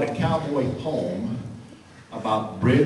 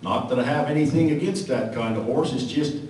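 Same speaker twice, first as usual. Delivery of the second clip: cowboy poem recitation. Acted.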